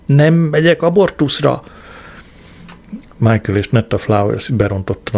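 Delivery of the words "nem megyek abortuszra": high-pitched, mildly hysterical cry; hysterical scream. A narrator's reading. Marigold refuses an abortion, narrated as high hysterics. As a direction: pitch it up, a restrained mock scream. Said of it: "Kezdett hisztérikussá válni, sikítozott".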